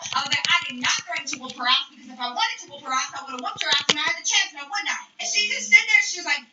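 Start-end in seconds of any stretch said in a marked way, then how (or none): 0.4-5.0 quick, indignant retold comeback; really fast rant. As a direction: rattle off the retort without a pause. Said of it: "started talking really fucking fast".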